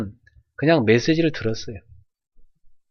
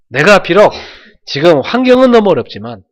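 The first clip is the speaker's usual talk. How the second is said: raised, louder resolve to God; determined vow; 5 semitones higher, 7 dB louder than usual. Retold or imitated. Pastor retelling his vow, loud and determined. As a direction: declare it loud and high.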